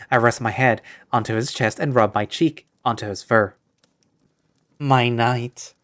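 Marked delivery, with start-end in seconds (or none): 4.8-5.7 swooning. Acted. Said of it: "I say this in a swooning voice".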